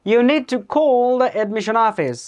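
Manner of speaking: slow, drawn out, high and loud start; slow dictation read. Shown as a demonstration. Teacher reading a listening-test sentence: slow dictation. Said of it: "next কইলো কি".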